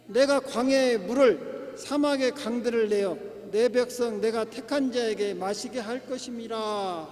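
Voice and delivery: slow, measured verse reading; steady recitation from the pulpit; scripture reading. Real, not acted. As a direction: read out the Bible verse, projected and deliberate. Reads scripture aloud to congregation.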